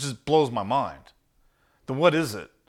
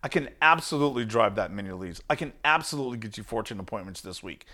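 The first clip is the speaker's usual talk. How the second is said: absolute confidence; 4 semitones lower, 4 dB quieter, faster than usual. Shown as a demonstration. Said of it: "in my language".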